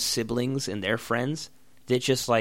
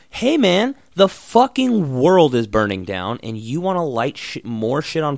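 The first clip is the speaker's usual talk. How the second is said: louder, rising angry rant; exasperated outburst; 2 semitones higher, 6 dB louder than usual. Real, not acted. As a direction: blow up at someone being oblivious. Ranting at bonfire people.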